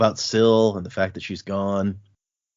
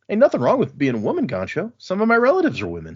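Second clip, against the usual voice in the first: voicing Lopin; 8 semitones higher, faster than usual. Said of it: "Lopin voiced".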